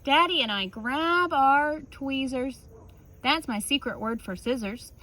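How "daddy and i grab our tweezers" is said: plain reading voice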